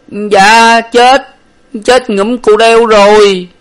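high, loud wailing, slowing at the end; crying. A narrator's reading. Servant tells his master she is dead, crying. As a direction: wail out the terrible news. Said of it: "rồi khóc mà rằng".

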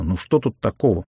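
ordinary delivery

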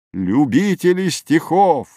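high, ringing opening of a poem; exultant recitation. A narrator's reading. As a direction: open the verse with ceremony. Admirer starts reciting a celebrated poem.

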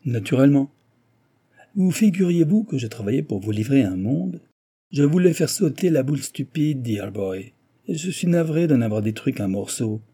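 high, emphatic boasting, easing off; mocking engineer. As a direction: brag airily to a beaten rival. Engineer airily boasts of destruction.

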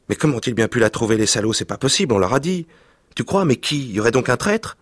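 put-on dismayed boys. Boys find their hut wrecked.

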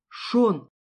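a loud confused call; bewildered shout. Acted. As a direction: call his name, thrown off. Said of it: "раздался растерянный голос Ника". (растерянный возглас)

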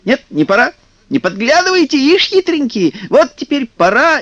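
high, teasing sing-song; playful kikimoras. A narrator's reading. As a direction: call out like sprites at hide-and-seek. Kikimoras playing hide and seek.

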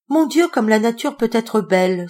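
high, loud wonder at nature; marvelling exclamation. Acted. Denise admiring the snowy tree, high and bright. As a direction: exclaim in delight. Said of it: "s'exclama Denise".

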